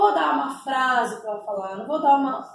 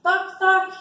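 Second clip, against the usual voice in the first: playful modelled word, first take; 6 semitones higher, 4 dB louder than usual. Shown as a demonstration. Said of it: "Depois eu faço sim".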